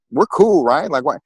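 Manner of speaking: high, loud disbelieving "we're cool, right?"; incredulous protest. Retold or imitated. Confused protest at father's order.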